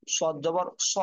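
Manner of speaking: heavy, thick "স" with a rounded vowel; heavy consonant. Shown as a demonstration. Teacher drilling Arabic letters, "স" said thick. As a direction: say "সদ জবর স" with a full, heavy স. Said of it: "মোটা হবে".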